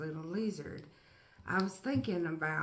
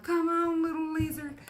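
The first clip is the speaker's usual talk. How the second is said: high, louder coaxing cheer; excited urging; 9 semitones higher, 6 dB louder than usual. Retold or imitated. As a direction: coax the little lizard on. Cheering lizard.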